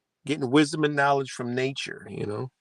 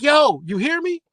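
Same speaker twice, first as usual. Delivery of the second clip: much higher, loud call across distance; 7 dB louder than usual. Pretend. Calling to Kimmy over distance, much higher and louder. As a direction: shout it like testing a new signal. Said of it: "I'm like".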